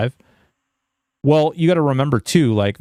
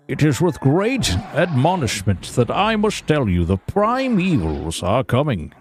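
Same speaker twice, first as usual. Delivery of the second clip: grandly intoned muddled Irish-Jamaican proclamation; Irish-Jamaican accent. Pretend. Streamer playing herald of the prime evils, Irish-Jamaican accent. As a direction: deliver a solemn warning in mock Irish-Jamaican, slowing at the end. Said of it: "Irish Jamaican?".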